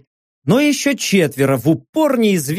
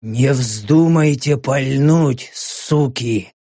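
low, slow, contained voice; held-back, measured caution; restrained warning; 4 semitones lower, much slower than usual. A narrator's reading. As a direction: warn them without raising the voice. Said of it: "сдержанно оповестил".

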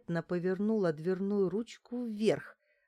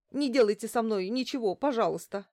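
louder, begging and pitiful; plaintive plea; 3 semitones higher, 4 dB louder than usual. Acted. Taped-up doctor pitifully begging her captors. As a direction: beg not to be hurt. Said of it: "жалобно попросила врач".

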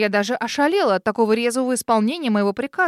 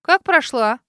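louder, outraged cry; shocked someone got past her locked gate; indignant exclamation; 7 dB louder than usual. Acted. Girl outraged at the intruder, indignant cry. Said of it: "Возмущённо воскликнула".

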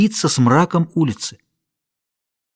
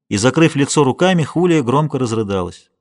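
plain reading voice

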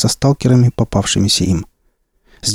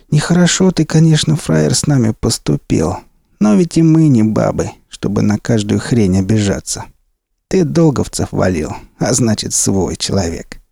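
gangster boss voice. Acted. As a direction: lecture like a crime boss.

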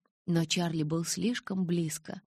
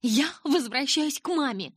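shouting; 10 semitones higher, 5 dB louder than usual. A narrator's reading. Bella shouts at Charlie through door.

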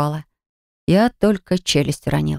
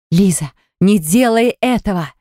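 shouting; 2 semitones higher, 3 dB louder than usual. Acted. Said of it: "закричали ведьмы".

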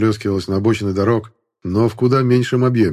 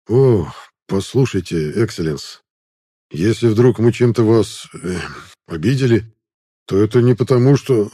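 flustered stammering. Acted. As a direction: fumble for words before a lord. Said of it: "Начал сбивчиво изъясняться воин".

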